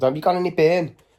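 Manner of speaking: put-on hostile Scouse accent. Retelling talking to people at a window, in a put-on scouse accent. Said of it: "So I just put on a Scouse accent".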